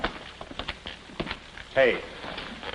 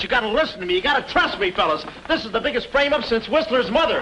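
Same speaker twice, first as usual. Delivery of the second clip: higher, urgent insistence; pleading protest; 6 semitones higher than usual. Acted. Man to departing police, begging their trust, urgent pleading. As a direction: beg to be believed.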